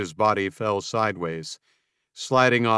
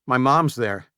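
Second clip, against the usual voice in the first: tight with fear; 2 semitones higher than usual. Acted. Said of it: "his voice tight with fear".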